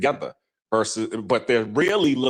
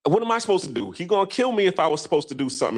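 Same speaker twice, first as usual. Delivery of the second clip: higher, pleading excuses; imitating a scared man's raised, helpless excuses; defensive man; 5 semitones higher than usual. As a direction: whine that he had no choice. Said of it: "He was like".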